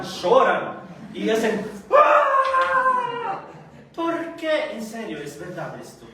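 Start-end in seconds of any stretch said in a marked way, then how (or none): 1.9-3.4 a sudden high drawn-out wailing cry; imitated wail. Preacher mimics Turkish mourners at a funeral, wailing cry. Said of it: "Los turcos cuando lloran".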